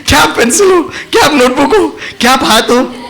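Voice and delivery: giggling through the questions; imitating students asking with laughter; laughing mock question. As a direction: ask it while cracking up. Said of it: "सब प्यार से मुस्कुराते, मोहब्बत से पूछ रहे".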